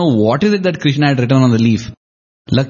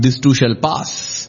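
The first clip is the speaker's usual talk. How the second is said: calm reply; 3 semitones lower, slower than usual. Acted. Yudhishthira answers Bhima.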